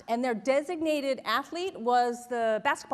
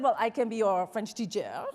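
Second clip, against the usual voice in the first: lower-pitched mock French accent; French-accented offer, imitated; 5 semitones lower than usual. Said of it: "he has this French accent".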